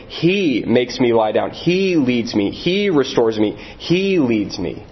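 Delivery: each "He" hit hard; "He makes me", "He leads me", "He restores me" with "He" stressed. Shown as a demonstration. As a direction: punch "He" at the start of every line. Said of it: "Again and again and again".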